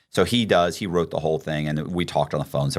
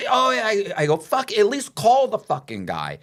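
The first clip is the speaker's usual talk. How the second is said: mock furious outburst. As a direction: let it rip in disbelief at the friend.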